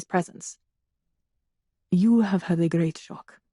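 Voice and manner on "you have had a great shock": low, soothing reassurance; calm her down gently. A narrator's reading. Drongowe soothing the shaken young woman, soothing low voice. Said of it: "pitching his voice to a soothing timbre".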